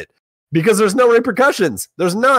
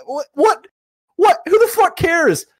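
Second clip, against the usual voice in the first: incredulous outburst; slower than usual. Real, not acted. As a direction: throw it out in exasperated disbelief. Ranting at toxic players.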